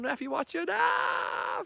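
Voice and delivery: high, loud mock yell to the referee; hammed-up appeal to an imaginary ref; mock shout at the ref. Fan mock-shouting at the referee for a dive. Calling to the referee mid-story.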